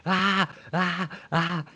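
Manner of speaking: cri aigu exagéré, étiré; cri hystérique. Retold or imitated. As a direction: imite un hurlement amplifié au montage. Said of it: "en intensifiant le truc pour le côté vraiment hystérique". (cri hystérique et aigu)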